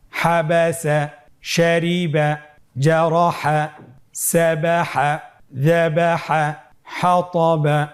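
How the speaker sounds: measured recitation, each word drawn out evenly; reading without spelling. Shown as a demonstration. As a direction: lead learners word by word with level, stretched syllables. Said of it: "বানান ছাড়া বলতে হবে". (বানান ছাড়া টেনে টেনে পড়া)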